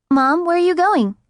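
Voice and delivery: put-on high, loud anxious child; worried little girl. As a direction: call after her like a scared kid.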